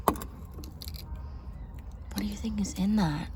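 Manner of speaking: a hushed, nosy wonder; curious whisper. Real, not acted. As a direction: whisper the question close to the mic. Curious question at grave, whispered.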